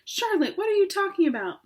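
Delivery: high, pleading whisper of alarm; alarmed cry. Acted. Pig begging his friend to explain, alarmed. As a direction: gasp her name in alarm. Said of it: "he cried".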